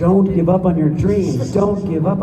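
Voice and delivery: hammed-up imitation of a fired-up speech; mock rousing motto. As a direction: proclaim it like an inspirational coach. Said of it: "I can hear him saying it".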